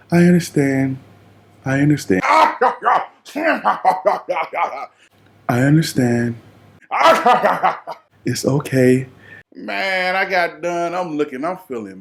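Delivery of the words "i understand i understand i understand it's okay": loud, laughing I understand; mock reassurance through laughter. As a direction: fake calm while cracking up. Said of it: "She looking at me like".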